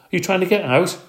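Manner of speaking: high, squeaky question; squeaky hamster voice. A narrator's reading. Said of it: "I squeaked".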